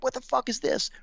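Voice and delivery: hammed-up angry commander; mock yell. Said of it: "He's, like, screaming".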